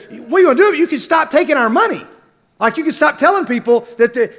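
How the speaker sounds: hammed-up furious moviegoer; mock angry customer. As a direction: play the irate lady at the counter. Angry lady argues with staff.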